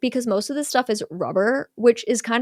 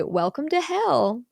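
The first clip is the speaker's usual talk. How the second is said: slow, higher automated announcement; 6 semitones higher, slower than usual. Retold or imitated. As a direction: intone it like a recorded attraction voice. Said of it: "they hear an automated voice say".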